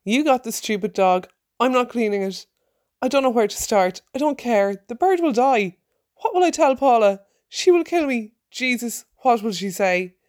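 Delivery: high, loud frantic screaming. Acted. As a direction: scream it out in rising panic. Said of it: "I screamed".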